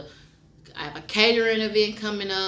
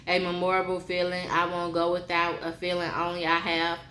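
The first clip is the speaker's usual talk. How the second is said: poem reading; 3 dB quieter than usual. Acted. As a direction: read each line like a confession. Reads her love poem.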